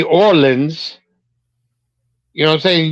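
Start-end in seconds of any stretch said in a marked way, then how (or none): 0.0-1.0 "Orleans" as OR-linz; local pronunciation. Retold or imitated. Quoting the co-host's way, "Orleans" as OR-linz. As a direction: say "Orleans" with a short last syllable. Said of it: "I've seen you say".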